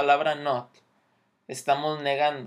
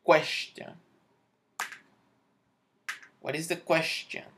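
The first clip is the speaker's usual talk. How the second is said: English accent; 2 semitones higher, slower than usual. Shown as a demonstration. Teacher shows learners the English accent on question. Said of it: "nomás le pones así un acento".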